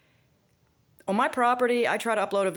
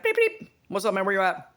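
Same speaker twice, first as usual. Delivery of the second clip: imitating work guys on Nextel. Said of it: "they're like".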